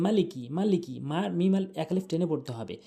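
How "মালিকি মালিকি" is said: "মালিকি" with first vowel cut short; common mispronunciation. Shown as a demonstration. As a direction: say "মালিকি" without lengthening "ma". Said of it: "অনেকেই বলে".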